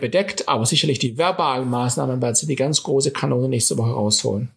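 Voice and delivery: worn-out, failing voice; talking on a voice that's nearly gone; voice giving out. Real, not acted. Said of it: "So, meine Stimme ist weg".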